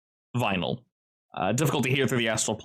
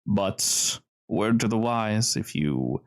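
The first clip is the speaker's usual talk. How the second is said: deliberate, decisive veiled threat; slow down for a composed warning; smooth gentleman; slower than usual. Acted. Cellar's host warns the intruder, slow and smoothly menacing. Game master plays smooth stranger.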